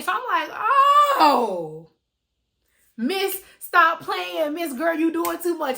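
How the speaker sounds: laughing at the friend who's now scared. Retold or imitated. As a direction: crack up while teasing her. Laughing while mocking friend.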